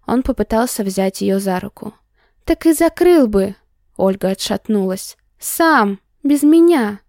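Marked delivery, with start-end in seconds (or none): 2.4-3.6 loud, high angry outburst; angry shout. Acted. Heroine shouting at him. 5.4-7.0 rising to a loud yell; angry shout. Acted. Heroine shouting at him.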